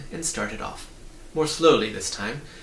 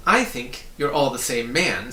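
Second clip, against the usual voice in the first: firmly insisting, a bit louder; emphatic; 4 dB louder than usual. A narrator's reading. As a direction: lean on every word. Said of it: "said Milo emphatically".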